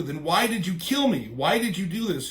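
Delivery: high-pitched accusing questions, acted out; freaking out. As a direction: demand an answer in mock betrayed agitation. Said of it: "freaking out".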